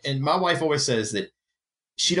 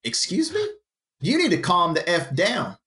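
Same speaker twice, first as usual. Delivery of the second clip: incredulous mock repeat; 5 semitones higher than usual. Fire officer throwing the crewman's words back, incredulous. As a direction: excuse me leaps high, then the line is thrown back in disbelief. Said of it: "I'm like, "Listen, partner".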